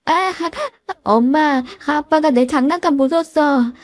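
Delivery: put-on high, whiny small child; a kid tattling to mom; little child voice. A small boy complaining to his mother, high and whiny.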